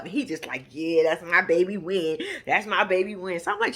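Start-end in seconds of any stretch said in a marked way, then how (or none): 0.7-3.4 low-pitched imitation of a smug lover; smitten man. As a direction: play a besotted man, pitched down. Imitates smitten man bragging on partner.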